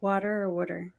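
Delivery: "water" then "water" said "wooder" with a Massachusetts vowel; Massachusetts accent. Shown as a demonstration. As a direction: contrast plain "water" with Boston "wooder". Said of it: "That's how you'd say it in Massachusetts".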